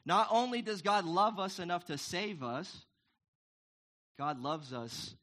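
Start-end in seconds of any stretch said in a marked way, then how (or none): 0.0-2.8 excited. Real, not acted. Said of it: "it's just so cool".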